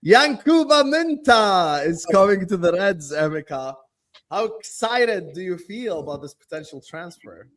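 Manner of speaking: put-on slow, drawn-out American accent. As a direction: deliver it like an American host. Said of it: "what was the American accent".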